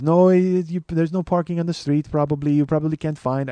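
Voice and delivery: lightly put-on Indian-accented clerk; mock Indian accent. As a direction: answer in a mild Indian accent. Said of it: "he's got that, uh, accent".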